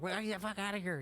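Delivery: mock-panicked cry to get out; panicked yell. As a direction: sound like you're losing it. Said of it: "I'm fucking losing it".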